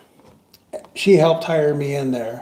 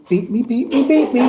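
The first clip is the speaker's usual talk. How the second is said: teasing; 8 semitones higher than usual. Retold or imitated. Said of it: "she'd go".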